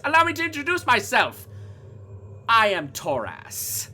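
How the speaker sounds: theatrical villain's grand reveal, high and loud; lilting, showy character voice with swooping pitch; Toras. Acted. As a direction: play a flamboyant showman, mock-apologetic and over-polite. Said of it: "turns to you all and just goes".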